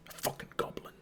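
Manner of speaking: breathy whispered grumble; grumbling. Acted. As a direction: mutter it under your breath as you leave. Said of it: "grumbling to themselves".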